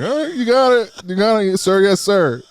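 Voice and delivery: hammed-up eager student; mock obedient. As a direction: overdo the compliance cheekily.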